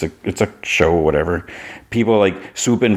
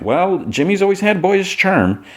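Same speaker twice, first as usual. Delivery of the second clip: high slow Clark; 12 semitones higher, slower than usual. Retold or imitated. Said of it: "And Clark's like".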